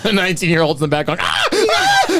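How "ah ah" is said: very high panicked scream; dying words. Retold or imitated. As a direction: shriek like a doomed teenager. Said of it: "brutal impression of a dying nineteen-year-old".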